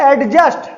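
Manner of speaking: "Adjust" said the wrong way, d sounded; "Adjust" with the d pronounced; wrong pronunciation. Shown as a demonstration. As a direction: demo of the common mistake, "Adjust" with a d. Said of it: "but it is not pronounced adjust".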